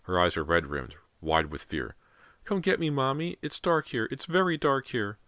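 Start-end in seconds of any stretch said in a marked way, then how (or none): 2.4-5.2 put-on high little-boy voice pleading; frightened child. A narrator's reading. Trapped boy begs Mommy to come, high and scared. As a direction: plead as a small child in the dark. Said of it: "James's words sent a cold shiver".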